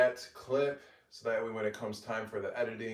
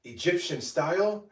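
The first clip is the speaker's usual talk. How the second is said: higher, louder cheerful voiceover presentation; voiceover read; 7 semitones higher, 5 dB louder than usual. Acted. Creator showing off her baked agga, bright voiceover. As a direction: present the finished dish like a cooking-show host.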